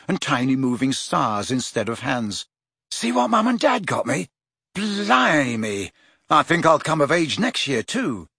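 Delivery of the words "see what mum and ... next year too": high, eager show-off; bubbling over with glee; excited boy voice. Acted. Ron excited over watch.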